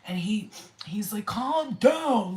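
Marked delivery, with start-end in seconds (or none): 1.3-2.4 loud, raised mock command; giant's firm command. Huge being calming the little elf, firm command. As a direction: imitate a big being ordering calm. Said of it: "like that".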